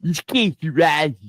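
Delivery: attempted demonic reading voice. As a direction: read it like a demon. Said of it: "read this in a demon voice".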